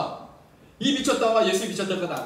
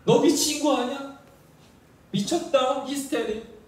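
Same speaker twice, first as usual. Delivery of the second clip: higher, slow "are you crazy"; mock accusation; 5 semitones higher, slower than usual. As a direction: scoff at him as hysterical. Relatives' accusation retold.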